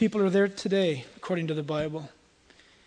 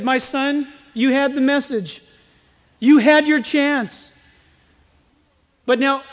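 solemn Abraham; 6 semitones higher, 8 dB louder than usual. Acted. Abraham answers the rich man.

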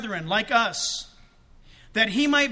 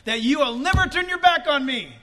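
modelled prayer; 2 semitones higher than usual. Retold or imitated. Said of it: "you take that to prayer and you say".

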